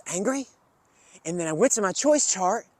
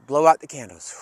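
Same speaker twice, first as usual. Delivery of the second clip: calm exhale cue; 3 semitones lower, 5 dB louder than usual. Shown as a demonstration. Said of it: "take three deep breaths".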